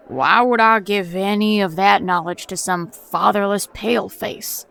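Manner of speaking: lightly voiced mocking Tonto accent, a touch of scorn; mock him with a hint of a Tonto accent; a hint of a mocking Tonto accent, retold. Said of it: "mocking me with a Tonto accent".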